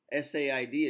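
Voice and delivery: "said" with a short E, like "sed"; pronounced S E D. Shown as a demonstration. Teacher showing irregular pronunciation, "said" as short "sed". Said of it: "it's pronounced S E D".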